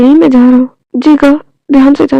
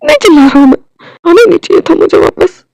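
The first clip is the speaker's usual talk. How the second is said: raised, heated voice; upset; 4 semitones higher than usual. Acted. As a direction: insist angrily you're not yelling. Denies shouting, still upset.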